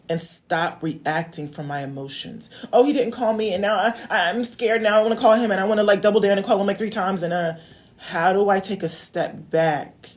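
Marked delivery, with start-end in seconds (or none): 2.7-7.2 put-on higher, louder, anxious rush of a worried girl; mock panic. A woman imitating her own panic when a man doesn't call back.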